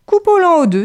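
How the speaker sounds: le hérisson se décide à partager; hedgehog deciding. A narrator's reading. (hérisson décidé, plus aigu et fort)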